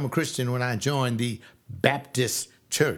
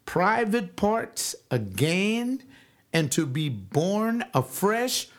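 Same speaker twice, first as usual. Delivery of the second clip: high incredulous mock question; lightly voiced baffled Nicodemus; 7 semitones higher than usual. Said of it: "asking Jesus".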